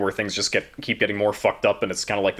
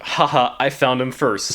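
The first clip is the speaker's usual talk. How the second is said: gloating Alicent; 3 semitones higher, slower than usual. Retold or imitated. Voicing Alicent gloating at her father, mock gloat. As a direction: taunt like you won the race. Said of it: "She did not say that".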